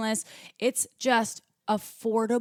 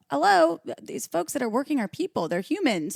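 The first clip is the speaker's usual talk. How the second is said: exasperated plea; 6 semitones higher than usual. Retold or imitated. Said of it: "I'm like".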